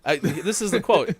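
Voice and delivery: loud, high, incredulous protest; indignant insistence. Real, not acted. Asking if they heard the quote, loud indignant insistence. Mock protest at being doubted.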